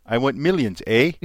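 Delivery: a hint of a mock Canadian accent with a tagged-on "eh". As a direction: quote her with a light Canadian "eh" at the end. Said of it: "I added in the A".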